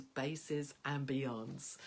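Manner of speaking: slowly, deliberately drawn out, rising at the end; slow recital. Shown as a demonstration. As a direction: let it float up like a spell. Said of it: "I said it out loud like this".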